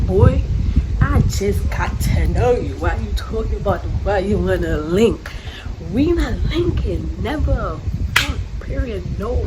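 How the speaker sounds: loud, indignant telling-off; angry rant. Retold or imitated. To the boy asking to link, a loud angry brush-off. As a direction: shut him down hard and loud.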